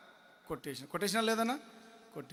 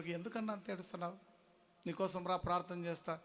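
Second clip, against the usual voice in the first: softly acted comforting question; lightly voiced quiet reassurance to someone in tears; gentle consoling; 8 dB quieter than usual. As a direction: speak softly, as if consoling the weeping. Joseph consoling a weeping prisoner.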